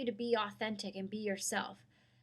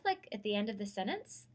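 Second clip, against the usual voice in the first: trailing upward. Shown as a demonstration. Teacher showing students a rising uptalk ending. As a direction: demo of uptalk, rising at the end. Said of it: "if you trail up".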